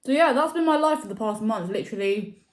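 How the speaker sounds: talking with a mouth full of food; words pushed around a bite of food. Real, not acted. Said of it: "Sorry, I'm talking my mouth full".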